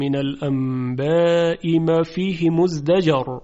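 slow, measured Quranic recitation. Shown as a demonstration. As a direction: recite the verse slowly.

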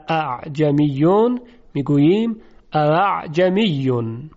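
اعجمیون with the second hamza softened toward alif; eased hamza. Shown as a demonstration. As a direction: model اعجمیون slowly and smoothly. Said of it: "به جای اینکه بگیم".

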